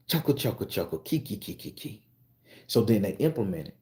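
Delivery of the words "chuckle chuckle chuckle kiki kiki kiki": spoken mock chuckle. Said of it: "they start laughing".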